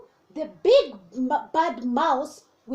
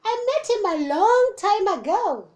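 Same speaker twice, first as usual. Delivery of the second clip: gruffalo voice; 7 semitones higher, 6 dB louder than usual. Acted. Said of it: "said Gruffalo".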